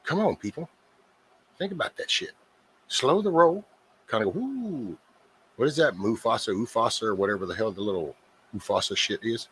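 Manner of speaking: high, pleading mock exasperation; a hint of begging them to think; exasperated plea. Host urging squabbling guests, high mock exasperated pleading. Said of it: "And it's like".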